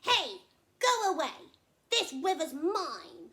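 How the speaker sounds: high, loud furious crocodile roar; shout. Acted. Crocodile shouting at the thirsty elephant, loud and high. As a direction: roar him away from the water. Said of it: "he jumped up and shouted".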